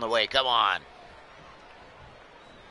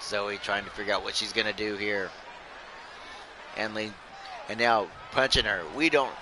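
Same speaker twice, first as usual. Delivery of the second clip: lively ringside commentary, calling every move; wrestling play-by-play. Acted. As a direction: call the match like a hyped announcer.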